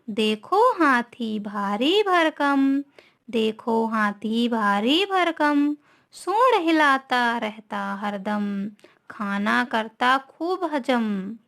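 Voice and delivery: slow singsong verse with drawn-out line ends; children's poem recitation. Shown as a demonstration. Teacher leads pupils through elephant poem, slow singsong recitation. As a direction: chant it slowly for little ones to follow.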